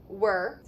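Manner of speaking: "were" as one slow er syllable; sound breakdown. Shown as a demonstration. Teacher breaking down world for a student, slow "were". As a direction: hold the er in "were". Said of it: "kind of sounds like were".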